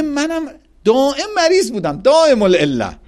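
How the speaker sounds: retold complaint. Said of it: "میگه".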